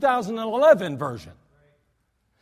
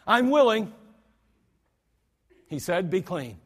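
indignant Jesus. Shown as a demonstration. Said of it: "Jesus was indignant".

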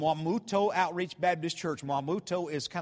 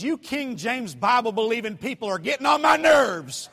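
annoyed outburst; 3 semitones higher, 5 dB louder than usual. Retold or imitated. Annoyed visitor snapping at preacher.

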